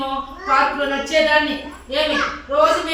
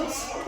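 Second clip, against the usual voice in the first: whispered ouch; 3 semitones higher, 8 dB quieter than usual. Shown as a demonstration. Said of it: "నొప్పి అంటామా లేదా?".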